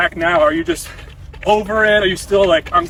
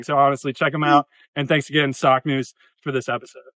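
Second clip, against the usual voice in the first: ad read; 4 semitones lower than usual. Acted. Sponsor ad read mid-episode.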